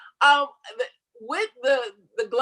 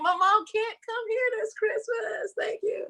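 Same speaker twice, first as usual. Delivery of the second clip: high, slow, mock-triumphant; mock declaration; 11 semitones higher, 5 dB quieter, slower than usual. Mom's daughter mockingly cheering no visit. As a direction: gleefully announce it to the family.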